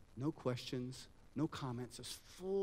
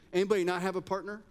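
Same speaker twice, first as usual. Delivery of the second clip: louder, quicker call to the whole room; 4 semitones higher, 5 dB louder, faster than usual. Real, not acted. Workshop leader calls to the audience for partners, loud. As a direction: call out across the room, fast.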